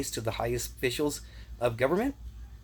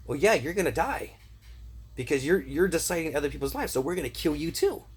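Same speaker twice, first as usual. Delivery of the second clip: raised, higher voice, "yeah" jumping up; mock menace toward advisers, louder; a hammed-up threat; retold mock threat; 4 semitones higher, 3 dB louder than usual. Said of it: "I'm like".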